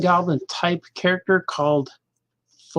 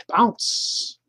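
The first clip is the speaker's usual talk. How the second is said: put-on high, breathy little kid saying bounce; kid's voice; 4 semitones higher than usual. Vlogger quoting the kid on the bike, high and airy. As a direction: imitate the kid on the bike, pitched up. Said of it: "The little kid on the bike".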